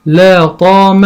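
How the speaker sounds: لا طام said slowly in two parts; slow, split reading. Shown as a demonstration. Teacher contrasting split and whole reading, slowly. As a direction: break لا طام into slow pieces. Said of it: "عندي مثلًا أقول".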